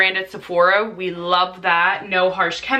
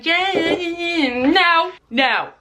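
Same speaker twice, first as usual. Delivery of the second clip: dismissive yeah voice; 9 semitones higher, slower than usual. Retold or imitated. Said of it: "Don't be saying".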